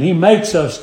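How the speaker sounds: "makes" given firm emphasis; stress on "makes". Real, not acted. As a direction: lean on the word "makes". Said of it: "I emphasize that word makes".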